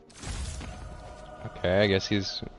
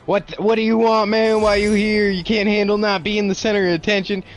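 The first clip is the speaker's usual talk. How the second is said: higher-pitched, hammed-up snippy complaint; Peter, bitchy; 7 semitones higher than usual. Peter rejecting MJ's help, acted bitchy outburst. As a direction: snap at an unwanted visitor, mock bitchy. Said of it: "Peter's a real bitch".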